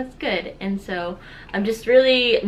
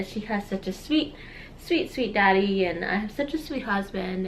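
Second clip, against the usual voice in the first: getting emotional; 2 semitones lower, 5 dB quieter than usual. Real, not acted. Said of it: "I'm getting emotional".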